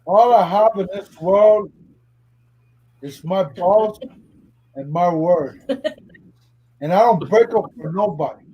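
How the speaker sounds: put-on a thick Cuban Scarface accent, tough; hammed-up Tony Montana quote. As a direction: growl it like a Miami gangster boss. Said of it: "Come on, Tony Montana".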